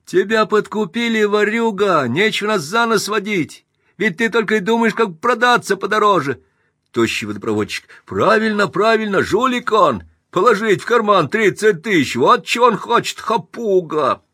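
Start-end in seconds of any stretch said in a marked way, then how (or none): 0.0-6.4 high, loud contemptuous shout; angry accusation. Acted. Joiner accuses Pinsky. 8.0-14.2 angry agreement. Acted. Plumber agrees loudly.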